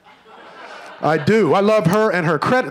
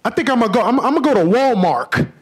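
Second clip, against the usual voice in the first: higher, lightly voiced buddy; a hint of an excited friend; buddy Reggie; 6 semitones higher than usual. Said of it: "he was like".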